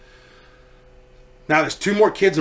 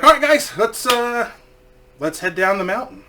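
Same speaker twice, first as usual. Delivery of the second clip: calling out to group; 6 semitones higher than usual. Retold or imitated.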